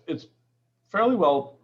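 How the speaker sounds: normal talking voice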